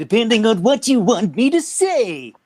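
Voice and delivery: very high, loud, swooping voice. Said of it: "eventually it sounds like this".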